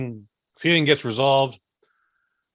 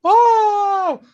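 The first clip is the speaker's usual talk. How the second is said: high, loud wonder-struck oh; loud high astonished cry; amazed gasp; 9 dB louder than usual. Retold or imitated. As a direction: gasp like the movie just blew your mind. Audience individual freakouts.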